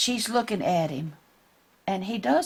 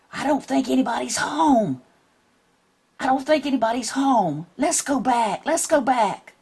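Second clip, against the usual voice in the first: shaky scared voice; 5 semitones higher than usual. Acted. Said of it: "His voice sounded so shaky".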